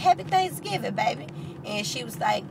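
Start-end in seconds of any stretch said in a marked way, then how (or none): 0.0-1.3 high, sweet Happy Thanksgiving; old lady answers the stranger's greeting; old lady's greeting. Retold or imitated. Grateful old lady greeting the driver, pitched high.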